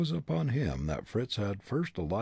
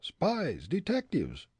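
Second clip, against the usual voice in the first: high suggestion; 10 semitones higher, slower than usual. Acted. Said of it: "suggested one of his companions".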